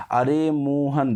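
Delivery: अरे मोहन with long रे and मो; stretched distant call. Shown as a demonstration. Teacher showing a call from afar, अरे मोहन stretched. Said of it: "मोहन पर यहाँ जोर लग रहा है".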